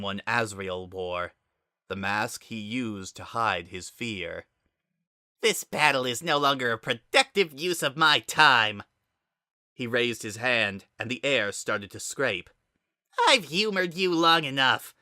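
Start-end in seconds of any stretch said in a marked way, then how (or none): 5.4-14.9 cold villain. Acted. Villain dismisses Frisk, powers up.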